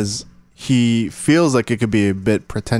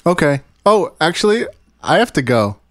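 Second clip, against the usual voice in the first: trying not to smile; 4 semitones higher than usual. Real, not acted. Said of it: "I can't keep a straight face for five seconds".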